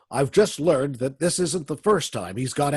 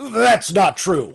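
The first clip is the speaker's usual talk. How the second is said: higher, louder and slow, a rattled denial; flustered denial; 6 semitones higher, 7 dB louder, slower than usual. Acted. Warden flustered as the Shadow exposes him, nervous denial. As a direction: stammer it out caught in the lie. Warden cornered, denies accusation.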